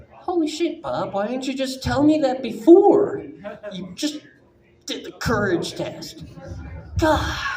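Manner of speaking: awed, disbelieving outburst; amazed. Retold or imitated. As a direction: gush in stunned admiration. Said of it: "And you're like".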